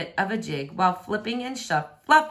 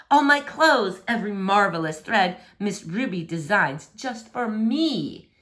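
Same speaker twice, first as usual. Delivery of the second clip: pompous prince; 2 semitones higher than usual. Acted. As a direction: puff up like a vain royal. Prince praises designer.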